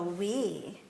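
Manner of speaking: "Oui" in a natural low voice, softly; real voice. Shown as a demonstration. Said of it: "Use your real voice and go".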